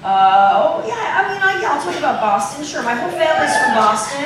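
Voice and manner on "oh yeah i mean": ordinary delivery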